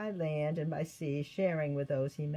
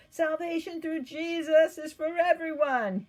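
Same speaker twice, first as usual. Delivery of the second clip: loud, higher preaching proclamation; proclaimed; 11 semitones higher, 8 dB louder than usual. Acted. Paul preaching in the synagogue, his voice filling the streets. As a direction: boom it out to the streets. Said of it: "he proclaimed".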